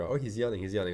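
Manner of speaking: usual speaking voice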